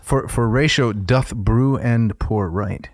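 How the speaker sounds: "doth" slowed and set apart; stress on doth. Shown as a demonstration. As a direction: lean on the word "doth", slowly. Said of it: "Did you notice how I slipped a doth".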